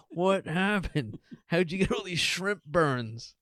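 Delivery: slow, laughing mock question. Mock ER doctor asking about shrimp burns, laughing.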